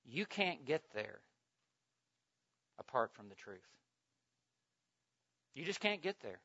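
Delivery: low, soft, measured sermon voice; hushed preaching. Real, not acted. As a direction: drop right down and let each phrase settle. Quiet preaching after the climax.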